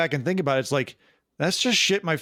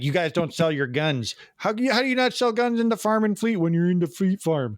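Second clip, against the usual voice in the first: mock Wisconsin accent, rising much higher; put-on Wisconsin bit, pitched up; 5 semitones higher than usual. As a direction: imitate an incredulous Wisconsin comic. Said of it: "shit like that".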